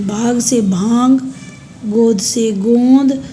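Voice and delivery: भांग and गोंद given clear nasalization, x slow; nasal contrast. Shown as a demonstration. Teacher contrasting nasal sounds for students. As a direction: slowly contrast भाग with भांग, गोद with गोंद. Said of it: "अनुनासिकता में".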